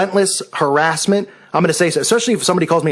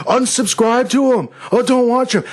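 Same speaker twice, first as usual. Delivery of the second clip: mocking accuser; 6 semitones higher than usual. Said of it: "I'm not gonna go".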